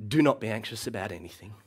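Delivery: calmer, gentler take of the verse; gentle reading. Shown as a demonstration. Preacher reads the verse to anxious listeners, gentle. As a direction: say it like a mother soothing a child. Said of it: "all of the gentleness of a mother".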